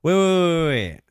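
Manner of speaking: loud, high startled wait. Real, not acted. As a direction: stop everything, alarmed. Sudden alarm while reading.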